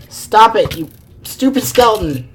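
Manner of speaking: frustrated gamer yelling at the screen; annoyed yell at a skeleton. Real, not acted. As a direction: snap at the mob that's hitting you.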